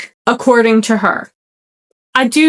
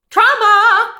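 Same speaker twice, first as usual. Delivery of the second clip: mock dramatic; 12 semitones higher than usual. Mock dramatic joke, then "That's a joke.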